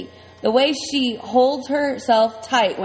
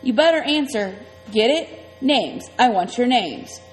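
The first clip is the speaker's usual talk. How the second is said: menacing biker; 3 semitones higher than usual. Acted. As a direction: press them for an answer. Iggy threatens kids, higher.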